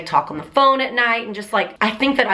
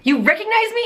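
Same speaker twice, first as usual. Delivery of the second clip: disbelieving squeal; 13 semitones higher than usual. Retold or imitated. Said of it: "I was just like".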